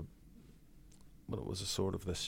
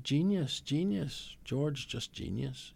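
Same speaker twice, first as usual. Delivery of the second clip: emphatic praise; 7 semitones higher, much slower than usual. Real, not acted. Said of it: "emphatic praise of George".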